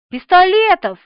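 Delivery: eager shout. A narrator's reading. Lieutenant shouting his guess down the phone. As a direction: shout the suggestion high and loud. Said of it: "подсказал лейтенант".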